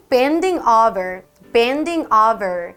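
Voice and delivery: "bending over" with a firm B; B pronunciation. Shown as a demonstration. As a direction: say "bending over", lips closed for B. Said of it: "헷갈릴 수 있는 발음들이". ("bending over" 비 발음 또렷하게)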